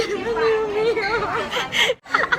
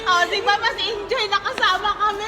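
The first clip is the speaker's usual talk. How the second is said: laughing; 6 dB quieter than usual. Real, not acted. Laughing while teasing.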